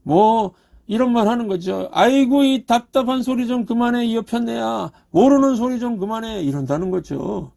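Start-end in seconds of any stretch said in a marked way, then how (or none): 1.9-6.4 a hint of a scornful husband, higher; mock-scolding his wife with a sigh; dismissive husband. Pastor imitating a husband belittling his wife, mildly scornful. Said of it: "남편이 어떻게 아내를 무시할까요".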